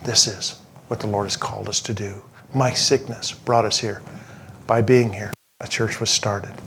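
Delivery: softly retold, low and earnest; a hushed, sincere statement of faith; quiet conviction. Wife explaining why the Lord brought them here, quiet conviction.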